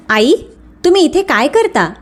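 mildly angry challenge, not shouted. Acted. Son confronting his mother at the restaurant, mildly angry. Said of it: "त्याच्या आवाजात राग होता".

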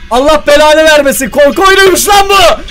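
alarmed outburst rising to a high scream; shocked shouting. Real, not acted. Player discovering it is a horror game, shocked shouting.

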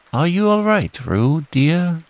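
high, worried motherly call; Kanga's anxious call. A narrator's reading. Kanga calling to Roo in the water, anxious. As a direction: call out anxiously, pitched well up. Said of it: "called Kanga anxiously".

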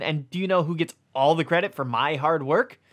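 pointed, frustrated question; a hint of an aggrieved book. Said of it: "clearly frustrated".

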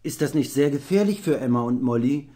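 put-on boyishly troubled inquiry; worried. A narrator's reading. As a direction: ask with concern, voice lifted. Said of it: "erkundigte sich Jim besorgt".

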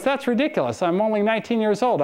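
put-on high, incredulous teen protest; mock exasperated teenager; imitating teenage daughter. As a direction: play the daughter scoffing at the idea. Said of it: "And she goes".

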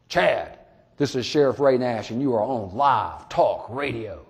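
a lightly put-on radio announcer; slow, smooth on-air introduction; radio host voice. Sheriff greeting a boy on air, in a mild radio voice. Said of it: "in my best possible radio voice".

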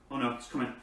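straining to pull off a stuck lid; tugging hard on a stuck lid; opening a stuck jar. Real, not acted. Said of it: "no, the lid's stuck".

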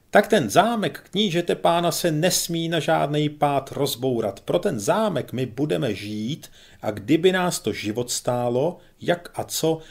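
a lightly voiced major carried away by zeal; fervent pompous major.

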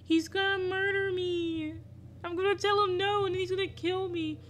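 a high-pitched panicked wail. Real, not acted. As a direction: squeak it out in real panic. Panicking as the yandere approaches.

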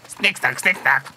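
playful clicky snipping noise; crayfish noise. Pretend. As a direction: snap like a crayfish claw. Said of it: "what would it sound like".

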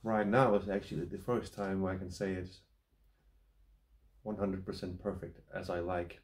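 talking around a pipe stem; pipe at the lips. Real, not acted. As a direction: between puffs on a pipe. Seen 1: Pipe stem held at or near lips throughout, not clearly clenched.

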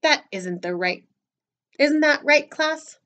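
loud coach appealing to the class; moderately yelled acted instruction; coach's yell. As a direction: lift the voice to rally agreement. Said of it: "yelled the coach".

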